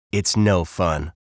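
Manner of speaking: lightly voiced glum bird; mild grumble; a touch of sulky complaint; grumpy bird.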